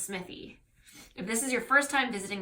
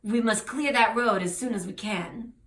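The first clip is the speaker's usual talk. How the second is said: put-on French accent; 3 semitones higher, 4 dB louder than usual. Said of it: "oh, he's French".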